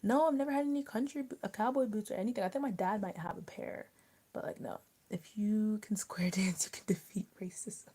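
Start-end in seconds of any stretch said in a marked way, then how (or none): 5.1-7.9 whispered joke, unvoiced. Real, not acted. Friend whispering a joke about square dance. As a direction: drop to a breathy whisper for the punchline.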